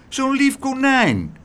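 high, slow plaintive wail; pitying cry. A narrator's reading. All three plead to spare the rabbit, pitying cry. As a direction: draw it out in sympathy. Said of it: "riepen ze alle drie meewarig".

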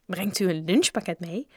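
put-on mildly puzzled boy; surprised. A narrator's reading. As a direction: ask with a touch of surprise. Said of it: "vroeg Joe verbaasd". (licht verbaasd)

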